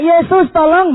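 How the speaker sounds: high, loud plea for help; =retold urgent call; crying out. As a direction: shout it upward, begging help. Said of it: "dia teriak".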